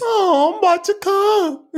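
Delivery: hammed-up Bane impression; mock Bane voice. Mock Bane for Big E, laughing. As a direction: say it like Bane, half crying with laughter. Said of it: "You want the Bane voice?".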